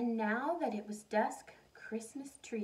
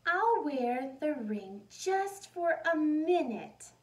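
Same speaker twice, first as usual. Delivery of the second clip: eager whisper to herself; 5 semitones higher, 7 dB louder, slower than usual. Acted. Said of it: "she said to herself".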